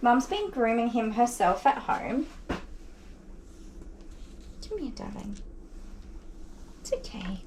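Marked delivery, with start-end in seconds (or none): 4.7-7.4 very soft, tender murmur; calm a dog known to snap; anxious doggy voice. Real, not acted. Groomer soothing the rescue dog, very softly. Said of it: "I talk in my anxious doggy voice".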